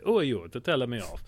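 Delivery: lightly imitated Italian accent; a hint of mock Italian indignation; Russell Crowe's Italian accent. Exorcist rebutting his Vatican critics, lightly mimicked Italian accent. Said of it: "he's basically like".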